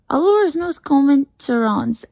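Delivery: exasperated French teacher; angry tutor. A narrator's reading. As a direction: scold firmly in drawn-out French. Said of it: "Here's what makes Philip angry".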